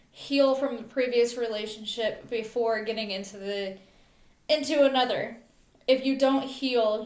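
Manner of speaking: measured poem recital in short phrases; earnest spoken verse; poem reading. Real, not acted. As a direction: read your own poem aloud, line by line. Reads own poem aloud.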